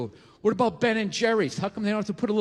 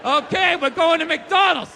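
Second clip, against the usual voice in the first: louder, trance-like announcement like a programmed agent; brainwashed monotone; 4 semitones higher, 3 dB louder than usual. Retold or imitated. Manchurian Candidate-style brainwashed man heads for McDonald's, louder. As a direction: declare it like a hypnotized sleeper agent. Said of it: "like the Manchurian Candidate".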